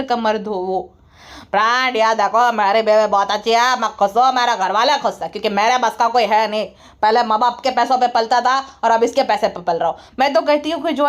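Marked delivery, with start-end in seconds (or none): 1.5-10.0 lightly voiced, lower-pitched parody of a husband; hint of a useless husband addressing his viewers; mock husband vlogger. Mocks the freeloading husband vlogging. (निकम्मे पति की हल्की, नीची आवाज़ में नकल)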